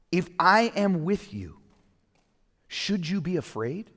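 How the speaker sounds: lightly voiced Jesus asking his disciples who he is; voicing Jesus. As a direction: ask it as a patient teacher. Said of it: "what he was really getting at".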